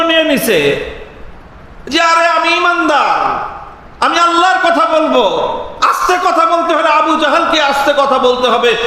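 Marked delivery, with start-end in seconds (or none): 2.0-8.8 defiant raised voice. Retold or imitated. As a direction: declare it boldly, refusing to back down. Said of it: "আরো চেঁচছেন সাদ ইবনে মুআজ".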